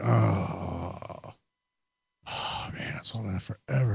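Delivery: long, soft groan of relief fading out; mock drawn-out "oh", nearly voiceless; imitated long sigh. Man imitating a slow relieved moment, mock sigh. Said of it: "it wasn't like".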